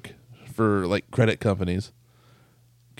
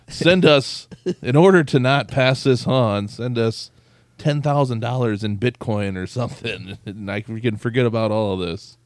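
louder, pushy scammer voice, half-laughing; mock scammer demand; 5 dB louder than usual. Scammer shaking down a coworker, hammed-up loud demand. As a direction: ham up a greedy extortion note.

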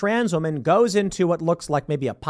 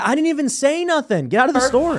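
higher mocking voice; mock worker voice; 7 semitones higher than usual. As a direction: squeak it out as the worker. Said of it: "He said".

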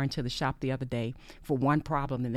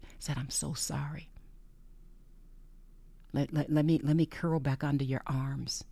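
retold prayer. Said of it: "this is just how I talk to God".

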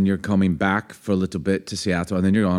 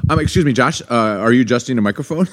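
mock reprimand; 3 semitones higher than usual. Repeats question as mock reprimand.

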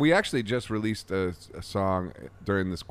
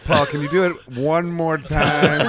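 louder, higher mock English producer voice; English accent; 6 semitones higher, 7 dB louder than usual. Producer coaxing Paul through another take, in a mock English accent. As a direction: play a cheeky London studio engineer. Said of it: "Did you slip into an English accent?".

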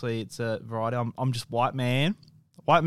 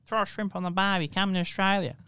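lightly hammed-up Australian ad voice, higher; quoting the tourism ad; 7 semitones higher than usual. Quoting the Australian tourism ad to his cohost, mock ad voice. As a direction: sell it like the old tourist advert. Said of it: "the Australian advert that they did".

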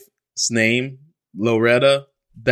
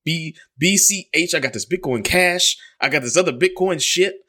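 imitating dad angry; 6 semitones higher than usual. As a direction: rant up high like the baffled dad. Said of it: "And he's like".

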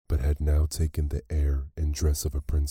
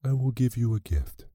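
much higher, airy fairy voice; fairy's voice; 9 semitones higher than usual. A narrator's reading. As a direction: lift up high into a light fairy voice. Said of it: "said the fairy".

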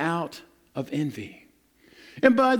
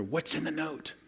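hushed wonder; 4 semitones lower, 10 dB quieter than usual. Retold or imitated. Wondering what the note says.

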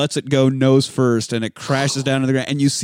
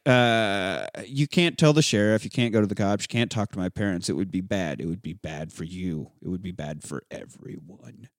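lowered menacing warning; 6 semitones lower, 6 dB quieter than usual. Retold or imitated. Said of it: "he's like".

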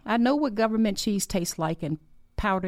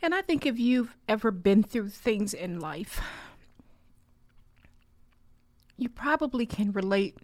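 real tearful gratitude, higher and halting; crying; 7 semitones higher than usual. Real, not acted. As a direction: choke up with thankfulness, voice pitched up through tears. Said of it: "I'm sitting here crying".

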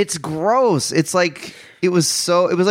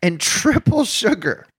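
slow and high, savoring the horror; disgusted emphasis; 6 semitones higher, slower than usual. Real, not acted. Describing a gross coffee order, slow and high disgust. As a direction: drag it out in mock revulsion.

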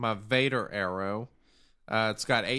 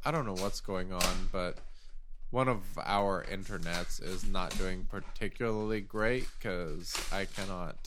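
tinny voice; 5 semitones lower than usual. Real, not acted. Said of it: "Maybe that's why you're so tinny".

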